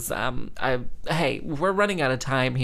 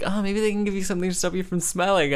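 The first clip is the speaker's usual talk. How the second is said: mocking mother; 5 semitones higher, faster than usual. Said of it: "she's like".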